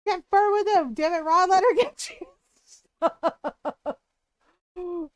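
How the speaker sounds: loud, high, playful outburst; exasperated yell. Real, not acted. Yelling at Ron who won't accept gifts, loud playful yell. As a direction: shout it in fond frustration. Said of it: "exasperated outburst at Ron".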